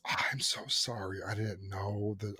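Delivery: soft, slow imitated apology; apologetic receptionist. Receptionist saying sorry to the patient, soft slow imitation. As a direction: drag it out softly, mock remorse.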